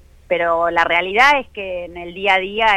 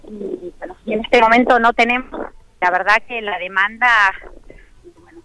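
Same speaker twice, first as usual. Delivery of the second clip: breaking up over a bad phone line; choppy connection; 3 semitones higher than usual. Real, not acted. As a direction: voice dropping out on the call. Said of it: "Se entrecorta".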